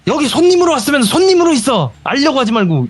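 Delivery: shrill high mock scolding old woman; a grandma telling off a guest, imitated high. Grandma scolding the guest to stop prying, mock angry. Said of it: "이러는 거예요".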